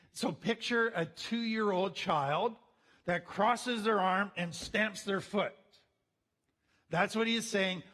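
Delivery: ordinary talk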